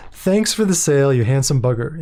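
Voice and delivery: light mock British accent, barely put on; a faint British accent imitation. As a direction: quote the computer with a hint of British. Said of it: "in a British accent".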